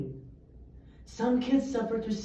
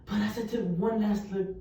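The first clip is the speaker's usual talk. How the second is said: poem recital. Acted. Student reciting a poem about an absent dad, solemn. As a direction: let each image land in the pauses. Opening spoken-word poem.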